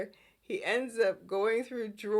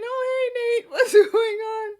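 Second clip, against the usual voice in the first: much higher and louder, over-bright greeting; sudden fake cheer; 12 semitones higher, 10 dB louder than usual. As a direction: flip instantly into a beaming host. Victor suddenly cheery to Nate.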